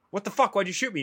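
retold shot soldier's high angry outcry; mock outraged yell. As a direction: yell it like the wounded soldier demanding why. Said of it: "And he's like".

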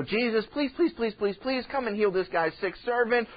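mildly pleading, rapid repeated pleases; understated mock pleading; earnest begging. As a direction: lightly act out begging a favor. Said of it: "they begged him earnestly".

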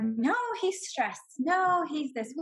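acted defensive protest, drawn-out. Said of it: "I kept defending him".

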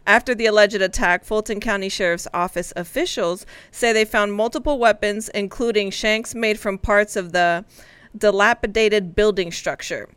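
measured, matter-of-fact news reading; grown-up news read. Shown as a demonstration. Co-host re-reading the jail story for teasing colleagues, grown-up news read. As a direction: read it out like a serious adult. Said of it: "read this as an adult for you".

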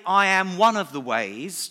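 mock alternative, lightly pushed; wrong version. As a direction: set it up as what he never said. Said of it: "Jesus didn't say".

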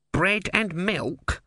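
high, drawn-out questioning offer; barman's offer. A narrator's reading.

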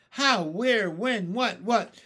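high, loud volley of one-word questions; excited questioning. A narrator's reading. Creatures demanding where string is, excited rapid-fire questioning. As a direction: fire off each question urgently.

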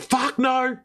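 high, emphatic mock refusal. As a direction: throw the no out high. Refusing to return to schnitzel.

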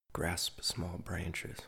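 slow, breathy whisper. Acted. Poet whispering a line to the listener, slow whisper. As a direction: hush it out slowly.

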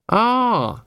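high, bright interjection. A narrator's reading. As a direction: pitch it up, pleased and eager. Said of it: "said Carrot brightly".

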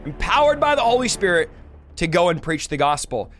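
booming epic trailer narrator; announcer voice. Acted. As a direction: sell it like a movie trailer. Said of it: "I need my announcer voice".

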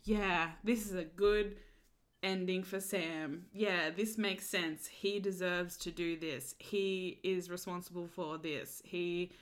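slow, self-satisfied mock; drawn out like a show patting itself on the back; slow smug parody of the show. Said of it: "patting itself on the back".

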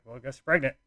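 nonchalant. Retold or imitated. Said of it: "I was just so nonchalant about it".

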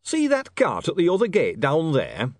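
loud, high, slow exclamation; tremendous astonishment. A narrator's reading. Harry shows visitors a cart outside, astonished. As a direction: point it out as if amazed. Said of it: "in tremendous astonishment".

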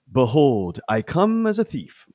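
solemn Bible reading; dramatic scripture reading. Shown as a demonstration. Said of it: "I will do my best".

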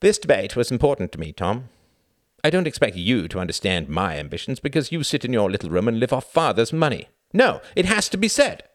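high, loud indignant tirade; rage. A narrator's reading. Reginald berating Tom for hijacking his evening, enraged. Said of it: "the rage in his brother's".

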